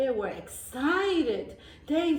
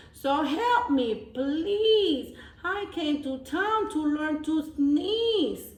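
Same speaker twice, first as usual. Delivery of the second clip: pleading goat; 4 semitones higher, slower than usual. Acted.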